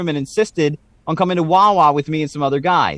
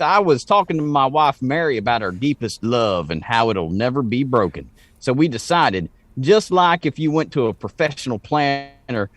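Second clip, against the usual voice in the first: put-on Slackjaw accent. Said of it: "read this one in a Slackjaw accent".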